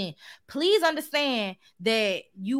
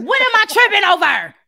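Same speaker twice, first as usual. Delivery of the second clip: dizzy and clumsy; 8 semitones higher, 11 dB louder than usual. Acted. Mom acting baffled by clumsiness.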